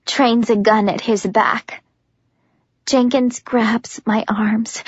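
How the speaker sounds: usual speaking voice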